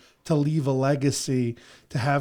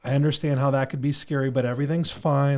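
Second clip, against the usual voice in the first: reassuring parent. Retold or imitated. Dad comforting his frightened son at bedtime, gently. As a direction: soothe a scared kid, unhurried. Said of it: "I have to be more empathetic".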